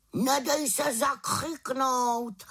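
slow, high raven call; calling after her. A narrator's reading. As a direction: stretch it out as a farewell call. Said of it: "volal za ní na rozloučenou".

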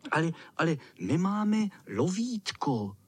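hesitant small squeak; timid peep. Acted. The smallest boy timidly objects, shy peep. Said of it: "pípl nesměle malý".

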